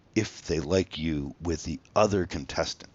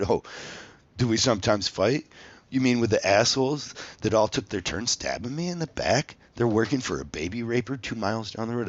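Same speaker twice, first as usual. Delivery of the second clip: sarcastic, rising heat; mock indignant retort; 4 semitones higher, 3 dB louder than usual. To the casting producers, a mild mock angry rant. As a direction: throw the question back with scorn. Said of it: "I said it more animated than that".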